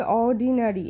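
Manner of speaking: "অর্ডিনারি" broken up part by part; broken into syllables. Shown as a demonstration. Teacher breaking up "অর্ডিনারি" for pupils, syllable by syllable. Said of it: "আলাদা আলাদা করে ভেঙে ভেঙে উচ্চারণ করলে".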